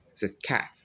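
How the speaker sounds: cat with a short front æ; cat said short and crisp as the right model; right vowel. Shown as a demonstration. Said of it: "I didn't say cart".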